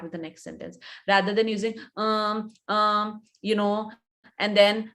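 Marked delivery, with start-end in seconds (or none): 2.0-4.9 halting, level fillers with gaps between; hesitant fillers. Shown as a demonstration. Coach showing students how fillers sound, halting and unfluent. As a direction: stall between words as if searching for the next. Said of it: "that looks that you're not very fluent".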